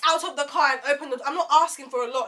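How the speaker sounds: loud, emphatic scolding, pitch jumping up; indignant telling-off. Retold or imitated. Telling off a rude date, loud and indignant. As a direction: scold someone for having no manners.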